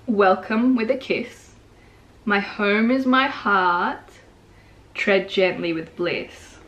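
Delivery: slow, deliberate verse quotation; poem reading. Acted. Poet quoting the poem to viewers, slow recital. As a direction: draw the lines out as recited poetry. Quotes poem while analyzing it.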